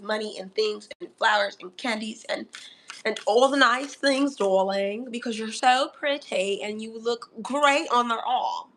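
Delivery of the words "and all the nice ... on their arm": playful mock-British accent, darling. Tarot reader flattering Libra about their looks, playful British accent. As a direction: put on a touch of British poshness. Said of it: "I don't know where this accent came from".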